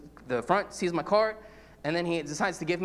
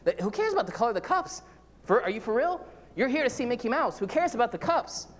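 mock scolding; 5 semitones higher than usual. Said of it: "you would say".

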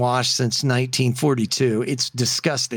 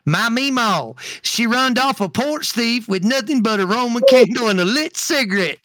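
put-on kid voice; 8 semitones higher, 3 dB louder than usual. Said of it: "This is what Bubby Wade says".

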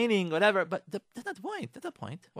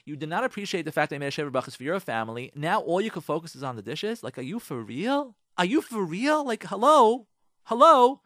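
indignant rant. Acted. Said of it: "what you really wanna say to him is".

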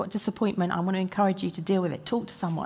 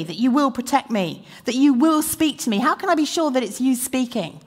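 pleading prayer; 4 semitones higher, 5 dB louder than usual. Acted. Voicing a believer's doubting prayer.

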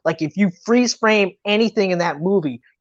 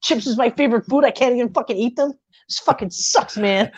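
fast, higher-pitched griping, without raising the volume; retold indignant rant; mock furious; 4 semitones higher than usual. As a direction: imitate an outraged complaint, rattled off quickly. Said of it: "and he's furious".

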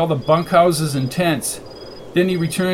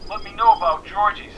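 higher, thin phone voice; voice over a device; 5 semitones higher than usual. A narrator's reading. Annie warns McKenna against the trip, thin phone voice. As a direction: object through a filtered line.

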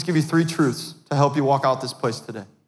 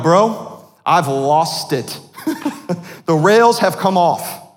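mock desperate call to a friend, loud; hammed-up panic with a laugh; 3 semitones higher, 4 dB louder, much slower than usual. Pastor retelling a call to Pastor Jordan, mock panicked. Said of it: "been like".

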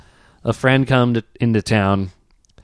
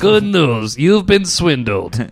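swindler voice; much slower than usual. Retold or imitated. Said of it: "running joke".

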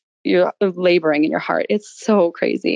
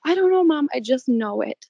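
put-on a young son, pitched higher, sure of himself; son's voice; 5 semitones higher than usual. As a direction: lightly voice the little boy, higher. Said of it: "And he's like".

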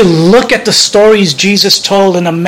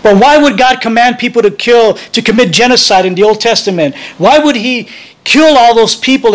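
higher, pressing questions with mild anger; flash of anger; 5 semitones higher than usual. Acted. Teen girl confronts Brad about Old Testament, mildly angry. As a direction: voice a teen's indignant challenge. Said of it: "Jess, with a flash of anger".

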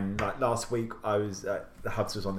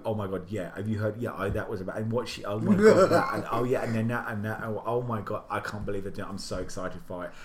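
mock gossip chatter. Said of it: "the conversation word for word went".

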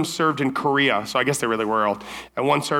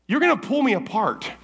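laughing protest; 7 semitones higher than usual. Retold or imitated. Laughing while retelling.

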